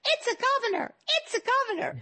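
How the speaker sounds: high-pitched excited yell, imitated; excited screaming. Colleague bursting into the convention, retelling her excited high shriek. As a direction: shriek it like breaking thrilling news. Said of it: "she comes running into the convention screaming".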